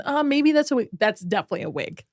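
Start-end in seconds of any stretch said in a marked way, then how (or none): 0.0-0.9 doubtful guess. Retold or imitated. Viewer unsure about the hair, hesitant guess. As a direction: wonder aloud if that's a wig.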